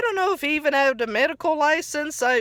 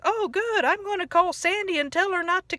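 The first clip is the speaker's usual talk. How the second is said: a dim friend pleased with himself, pitched up; Patrick imitated; 7 semitones higher, faster than usual. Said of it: "Patrick said".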